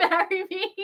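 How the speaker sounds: high-pitched mock lovestruck proposal; Orpheus. Fan imitating Orpheus proposing to Eurydice, too eager. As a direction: blurt a proposal in a high put-on voice. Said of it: "Orpheus goes up to Eurydice and goes".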